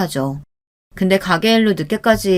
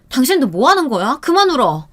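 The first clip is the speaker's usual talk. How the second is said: 높게 올려 다그치는 아내; 우는 남편을 날카롭게 나무라듯; 다그치기; 6 semitones higher than usual. Retold or imitated. 우는 남편을 다그침. (우는 남편에게 그만 울라고 높게 다그치기)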